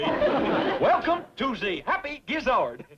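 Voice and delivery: slow, hammed-up French accent; mock French accent. Host greets restaurant guests, mock French accent. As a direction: attempt a French accent, drawn out. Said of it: "How do you like my accent?".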